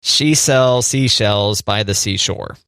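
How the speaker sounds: slow, careful tongue twister; really slow. Shown as a demonstration. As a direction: take each word of the tongue twister slowly. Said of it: "if you say it really slow".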